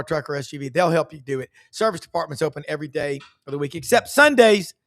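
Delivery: brisk radio ad read, punchy and upbeat; quick live-read commercial over a music bed; sponsor ad read. Acted. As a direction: sell the dealership like a talk-radio host. Host reads sponsor ads.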